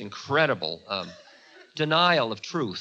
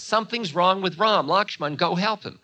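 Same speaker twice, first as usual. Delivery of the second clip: alarmed; 7 semitones higher, 5 dB louder than usual. Acted. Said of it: "Sita freaks".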